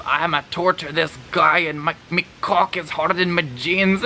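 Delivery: mock the narrator's thick British accent; badly faked British accent. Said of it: "I can't do accents".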